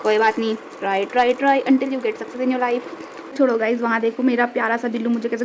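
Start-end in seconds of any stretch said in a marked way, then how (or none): 0.8-2.9 mock motivation. Mock motivational slogan after failed flip.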